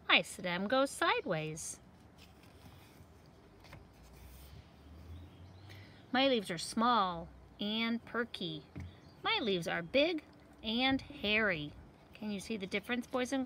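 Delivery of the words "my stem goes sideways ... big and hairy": lively seed voices for a picture book; talking seed characters. Acted. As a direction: voice the little seeds for kids. Seeds describe their growth.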